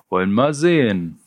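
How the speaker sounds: mildly pleased, sehen falling; a light touch of smug paperwork pleasure; cheerful bureaucrat. Acted. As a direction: Ralle browsing the list like a jolly clerk. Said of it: "wie ein gut gelaunter Bürokrat".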